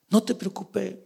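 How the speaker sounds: hushed, calming reply; soft reassurance. Acted. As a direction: quietly soothe the worried one. God reassures David, acted.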